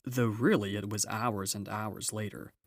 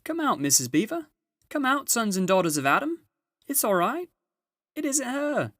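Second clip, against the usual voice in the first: high, loud joyful calling; a beaver shouting the good news; excited shout; 13 semitones higher, 8 dB louder than usual. A narrator's reading. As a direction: call it out, much higher and louder. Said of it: "how beavers talk when they are excited".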